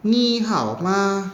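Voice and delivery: "Ni hao ma" drawn out slowly, ni and hao in third tone, ma short and toneless; Mandarin tones, very slow. Shown as a demonstration. Teacher modelling Mandarin greeting for class, very slow. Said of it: "ni-nya nada ketiga di sini ya".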